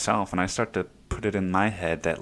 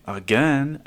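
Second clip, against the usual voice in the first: exasperated dad; 6 semitones higher, 5 dB louder than usual. Retold or imitated. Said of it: "he's gonna say".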